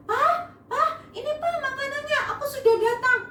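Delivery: high, quick, eager son; joyful. Acted. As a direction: burst in happily with the food. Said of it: "dengan sukacita".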